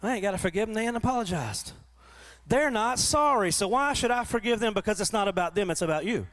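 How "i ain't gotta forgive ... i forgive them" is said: higher, indignant mock complaint; resentful grumble. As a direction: play the offended churchgoer refusing to forgive. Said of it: "You ever said that before?".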